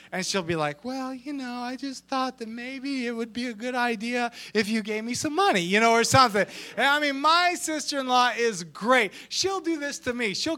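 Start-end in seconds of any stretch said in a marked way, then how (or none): 0.8-5.6 lightly put-on coaxing daughter; wheedle, pitch climbing toward the end; mock sweet-talk. Imitating sister-in-law asking dad for money, lightly wheedling. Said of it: "she will be so nice".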